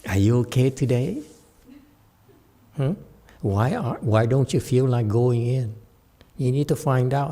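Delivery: soft, caring parent voice; calm and gentle. Shown as a demonstration. Mother calmly asking her son why he won't go. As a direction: ask gently, like a loving mother. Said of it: "If you said calmly".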